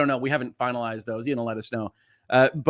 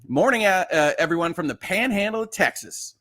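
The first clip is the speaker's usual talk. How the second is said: put-on Texas accent; 5 semitones higher than usual. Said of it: "I should not put a Texas accent on".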